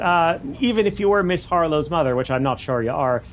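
studio guard. Acted. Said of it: "He goes".

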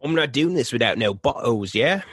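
bad Australian accent that sounds English; mock Aussie accent, half English. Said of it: "That's my Australian accent".

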